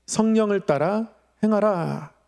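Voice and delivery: normal talking voice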